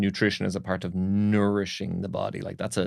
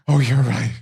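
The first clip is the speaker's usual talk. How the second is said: high, loud cry of concession; mock-rapturous exclamation; overwhelmed agreement; 4 semitones higher, 9 dB louder than usual. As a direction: act out the king's ecstatic agreement. King overcome, concedes to servant.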